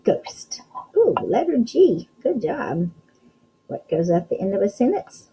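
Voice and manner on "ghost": whispered model word. Shown as a demonstration. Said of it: "And then we have a what?".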